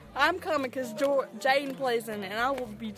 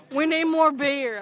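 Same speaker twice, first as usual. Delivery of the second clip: put-on drunk voice; 4 dB louder, slower than usual. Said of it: "drunk as hell".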